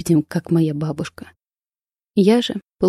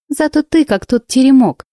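quick retort; 8 semitones higher, 4 dB louder than usual. A narrator's reading. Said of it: "парировала Кристина".

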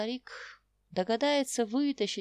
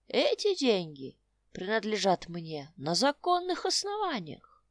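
put-on old prospector; 3 dB louder than usual. Old man insists.

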